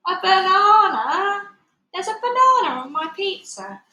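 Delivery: can't believe what's on the pizza; shocked disbelief. A narrator's reading.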